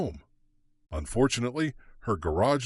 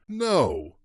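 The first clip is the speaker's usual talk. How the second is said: a sharp, higher cry of No; shouted; 5 semitones higher, 3 dB louder than usual. A narrator's reading. Kate cries out as the gun turns on her. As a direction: fling out a single No. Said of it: "Kate shouted".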